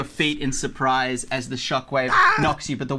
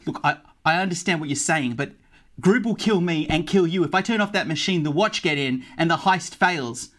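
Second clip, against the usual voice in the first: a touch of anxious pleading; mildly worried character voice; lightly voiced elf guard, fearful; 4 semitones higher than usual. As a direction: lightly act an elf explaining his fear. Elf fears Groob will kill everyone.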